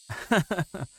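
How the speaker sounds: high sheepish giggle. Acted. Mion giggling before telling Kei-chan her secret, high sheepish giggle.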